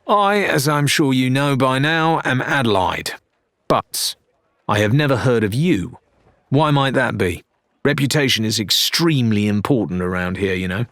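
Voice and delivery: a proud captain, a touch haughty; lightly voiced Adelaide. Captain questions the newcomer, lightly voiced, proud. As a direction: announce yourself, then probe the stranger.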